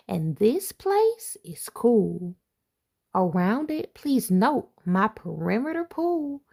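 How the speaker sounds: lively picture-book read-aloud; reading to children. Acted. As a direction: read it like a bedtime rhyme to kids. Reads rhyming picture book aloud.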